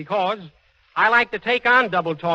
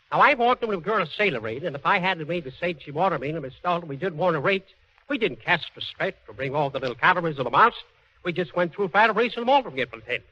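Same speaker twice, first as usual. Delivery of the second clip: deadpan gibberish sounding like real sentences; double talk; 3 semitones lower than usual. Shown as a demonstration. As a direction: rattle off confident nonsense phrases. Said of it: "like this".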